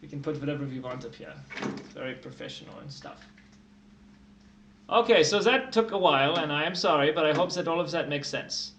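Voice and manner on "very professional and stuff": whispered aside. Real, not acted. Mock-proud aside.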